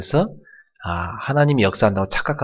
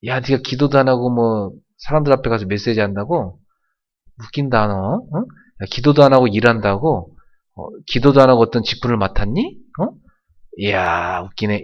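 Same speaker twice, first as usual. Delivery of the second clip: sneering devil. Retold or imitated. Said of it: "이 마귀가 볼 때는 비웃습니다".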